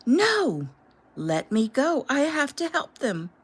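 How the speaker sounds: high, loud desperate cry; frantic shouting. Acted. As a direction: fight and shout at once. Struggling, desperate.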